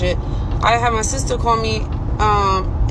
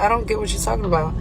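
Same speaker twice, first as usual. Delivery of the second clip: rattled off fast and softer, baffled; confused fast mumble; 4 dB quieter, faster than usual. Retold or imitated. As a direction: rush it out softly, lost and confused. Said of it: "I'm saying it just like that".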